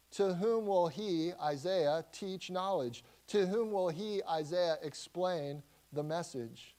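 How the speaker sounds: sneering, taunting questions; mock the prophet with scorn. Leaders taunting Isaiah, mocking sneer. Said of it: "harsh, mocking critics".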